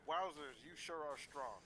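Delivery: put-on wholesome 1950s kid. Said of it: "This kid just say".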